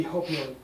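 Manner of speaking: "hopion" starting on an audible H; with H sound. Shown as a demonstration. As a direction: breathe an H onto the front of "hopion". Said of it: "Isn't there a H sound to it?".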